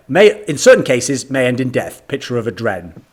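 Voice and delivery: lightly mock drug-ad warning; drug commercial announcer. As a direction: read side effects like a TV advert. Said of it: "like, medication commercials".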